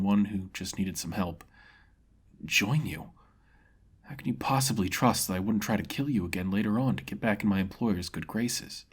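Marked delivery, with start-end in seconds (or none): 2.4-8.9 a beaten man accepting death; solemn swordsman conceding defeat; defeated mercenary. Acted. Mercenary doubtful.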